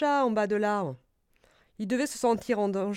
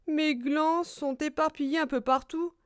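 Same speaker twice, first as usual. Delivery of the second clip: higher-pitched dismayed squirrel; squirrel lamenting; 6 semitones higher than usual. Acted. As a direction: lament the loss in a small high voice. Écureuil se désole. (voix haute d'écureuil désolé)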